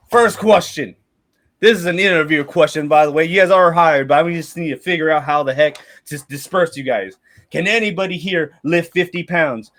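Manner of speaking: lightly voiced mercenary captain questioning the recruits; mercenary leader interviewing. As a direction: run it like a gruff job interview.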